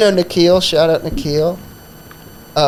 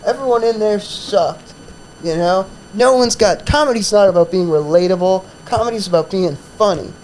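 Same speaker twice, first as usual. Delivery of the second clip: cranky rant; 4 semitones higher than usual. Retold or imitated. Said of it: "he was getting cranky".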